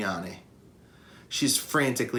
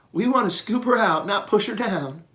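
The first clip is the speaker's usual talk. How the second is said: a higher voiced, calm old elephant giving orders; steady elephant matriarch; 10 semitones higher, 4 dB louder than usual. Matriarch Okello instructing the elephants in a raised voice. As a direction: guide the herd carefully.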